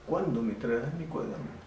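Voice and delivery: "Cuándo" pitched high as an emphatic question; pregunta enfática. Shown as a demonstration. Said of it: "estoy preguntando". (pregunta enfática, «Cuándo» en tono alto)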